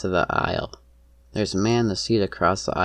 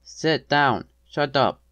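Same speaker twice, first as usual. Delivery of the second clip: higher, forceful commands; raised, pitched-up angry orders; shouting; 5 semitones higher, 4 dB louder, much slower than usual. A narrator's reading. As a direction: bark orders at someone.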